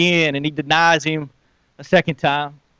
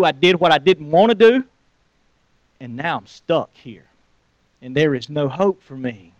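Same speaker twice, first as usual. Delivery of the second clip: despairing inner voice. Acted.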